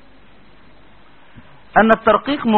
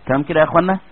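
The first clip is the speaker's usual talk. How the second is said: ordinary talk, nothing marked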